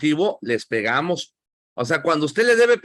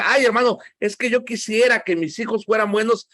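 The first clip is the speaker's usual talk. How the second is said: higher, mock whiny sigh of a wishful parent; 5 semitones higher than usual. Preacher mocks a parent who only wishes for good kids, higher and whiny. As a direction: play the lazy dreamer who only wishes. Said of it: "si usted dice".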